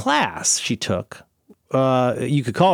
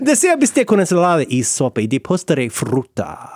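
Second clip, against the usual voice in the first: showy rolled-R Spanish; fluent Spanish. Pretend. Host showing off to co-host, fluent Spanish accent. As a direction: rattle off textbook Spanish phrases with a Spanish accent. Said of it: "You're sounding very fluent".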